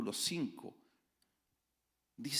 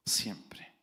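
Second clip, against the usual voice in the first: whisper; 4 semitones lower than usual. Acted. Mocking self-righteous blame.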